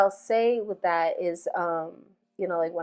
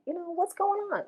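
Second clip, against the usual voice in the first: calm; 11 semitones higher, 5 dB quieter than usual. Retold or imitated. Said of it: "I calmly talked to my daughter".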